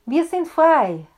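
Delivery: high, loud joyful cry; shouted. A narrator's reading. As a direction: burst in shouting the good news. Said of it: "rief er".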